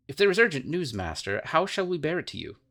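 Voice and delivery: king crying out to his departing master; cried out. Acted. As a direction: call out urgently to the master. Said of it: "the king cried out".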